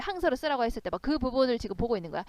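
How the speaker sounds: normal talking voice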